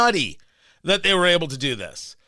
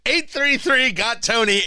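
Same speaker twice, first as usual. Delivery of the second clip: laughing; 5 semitones higher than usual. Real, not acted. Host reading the phone number through a laugh, chuckling. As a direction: still chuckling, slow. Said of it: "I made myself laugh".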